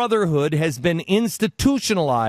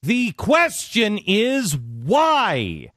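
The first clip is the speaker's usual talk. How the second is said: rising, insistent demand, repeated why; passionate rant; 3 semitones higher than usual. Shown as a demonstration. Host demanding answers from the press, fired-up rant. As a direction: pound out every why like a crusade. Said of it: "How's that for passion?".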